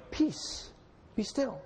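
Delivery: whispered softly, no force at all; hushed and unshouted. Shown as a demonstration. Pastor voicing Jesus to the storm, whispered. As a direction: breathe the words like calming a child. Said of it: "I believe he simply spoke".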